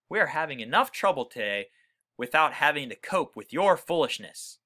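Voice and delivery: a touch of a stern father scolding; exasperated scolding. Acted. Father scolding George for his foolishness, mildly exasperated. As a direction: scold the boy, lightly voiced and fed up. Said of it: "in an exasperated tone".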